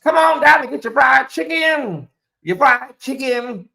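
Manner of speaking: mock ad by a singer. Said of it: "A singer talking about".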